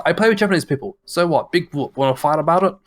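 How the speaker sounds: mock defiance. Gamer jokingly defends playing with Japanese people, mock defiant. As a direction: throw out a mock challenge to a fight.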